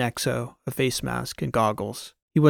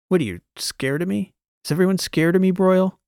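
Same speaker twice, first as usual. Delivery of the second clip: higher, louder, disbelieving questions; incredulous challenge; 7 semitones higher, 5 dB louder than usual. A narrator's reading. Transom asking the wary unit if they're scared, incredulous challenge. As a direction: build to a loud, high challenge.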